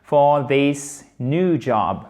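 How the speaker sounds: careful, slow model English; standard pronunciation. Shown as a demonstration. Teacher modelling the phrase for learners, standard pronunciation. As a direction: say "For this new job" slowly and carefully. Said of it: "standard, classique, telle que ça doit être fait".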